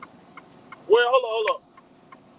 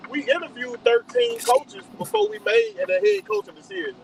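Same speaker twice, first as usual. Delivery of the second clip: heated, raised voice; 9 semitones higher than usual. Real, not acted. Heated sports argument.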